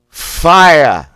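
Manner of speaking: Boston "fire" barked high and loud; Boston fire blast. Shown as a demonstration. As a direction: dump all your air on a Boston "fire". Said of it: "thrust out quickly and sharply".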